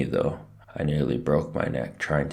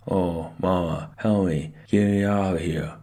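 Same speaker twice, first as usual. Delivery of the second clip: higher wail building louder; muffled wail; 4 semitones higher, 3 dB louder than usual. A narrator's reading. Stuck boy begs Mama to free him, muffled wail. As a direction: wail for rescue with lips stuck.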